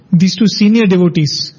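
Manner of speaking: retold remark, lightly stressing the words "senior devotees"; emphasis on "senior devotees". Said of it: "with a emphasis on the word senior devotees".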